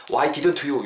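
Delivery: "didn't you" split as "디든투 유"; unlinked misreading. Shown as a demonstration. Showing students how not to read it, unlinked "didn't you". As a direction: keep the t of "didn't" apart from "you". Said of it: "이렇게 읽지 마시고요".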